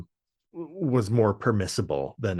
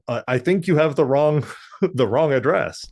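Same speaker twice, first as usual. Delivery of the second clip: white voice; 2 semitones higher than usual. Retold or imitated. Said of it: "his white voice".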